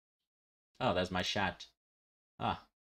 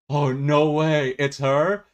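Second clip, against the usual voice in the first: drawn-out astonished disbelief, pitched up; amazed, slow and higher; 5 semitones higher, 8 dB louder, slower than usual. Retold or imitated. Retelling the boy's reaction in the clip, slow amazed disbelief. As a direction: play the stunned boy who can't believe it. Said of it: "He's like".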